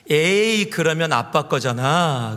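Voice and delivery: retold children's outcry. Children shouting back at their mother's offer, mock outcry. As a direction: call it out like protesting kids. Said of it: "소리를 지르면서 이렇게 얘기합니다".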